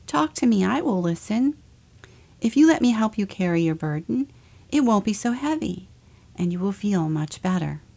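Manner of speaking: lightly voiced caring Jesus; gentle reassuring Jesus. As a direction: gently invite them to talk. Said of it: "If you heard Jesus say something like".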